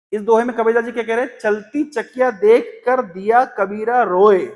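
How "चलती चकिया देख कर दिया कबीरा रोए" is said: slow verse recital. Acted. Reciting the doha for disciple.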